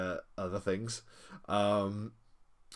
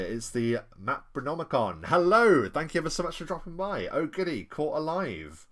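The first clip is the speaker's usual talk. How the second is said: normal talking voice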